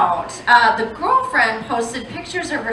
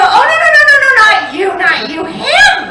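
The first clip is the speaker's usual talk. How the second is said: much higher and louder mock-frantic no no no; hammed-up reassurance; 9 semitones higher, 7 dB louder, faster than usual. People consoling the comic with karma talk, mock-frantic. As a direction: flap at them, then jab out Him. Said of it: "And then they go".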